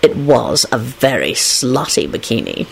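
low, slow, savouring tone; dramatic low drawl. A narrator's reading. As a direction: draw it out like a storyteller. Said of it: "he told Rosie dramatically".

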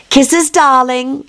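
high, sweet wife voice; a light touch of a doting wife; fond wife. Acted. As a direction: coax him fondly.

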